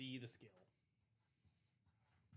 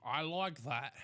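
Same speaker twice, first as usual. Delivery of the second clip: louder, playful echo; 2 semitones higher, 11 dB louder, much slower than usual. Acted. Cohost echoing the host's line, loudly. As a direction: throw the line back loudly.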